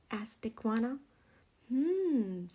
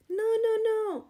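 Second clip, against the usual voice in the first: exasperated no; 7 semitones higher, 5 dB louder than usual. A narrator's reading. Rooster stops Iguana's mistake.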